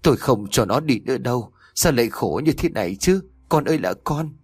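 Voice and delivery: a mother's alarmed cry, lightly acted; mother fearing for her daughter, rising panicked lament; frightened wail. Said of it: "hốt hoảng run rẩy nói".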